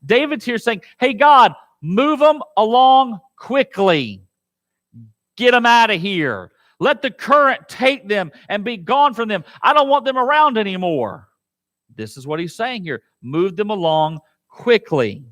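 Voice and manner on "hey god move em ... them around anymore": a hint of David urging God; David praying. Preacher as David asking God, urging. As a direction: call on God to sweep them off.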